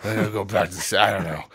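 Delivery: imitating actor. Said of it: "He's like".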